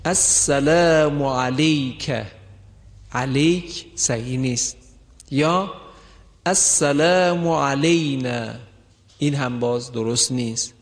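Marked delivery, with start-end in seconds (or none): 0.0-2.1 علیک said as alek, the fatha slid to e; mispronounced salutation; wrong pronunciation. Shown as a demonstration. 6.5-8.5 علینا said as alenā, fatha turned to e; mispronounced salutation; wrong pronunciation. Shown as a demonstration.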